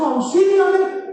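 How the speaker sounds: loud, high, drawn-out cry for help; shouted plea. Retold or imitated. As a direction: act out a desperate shout for help. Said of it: "le está gritando a Jesús".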